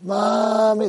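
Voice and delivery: mild acted scream; imitated scream. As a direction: call out like a dying movie soldier, half-heartedly. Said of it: "they would be screaming".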